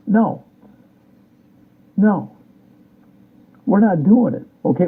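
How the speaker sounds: a firm, angry no; real anger. Real, not acted. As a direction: flatly refuse them, really angry. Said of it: "I'm just really angry right now".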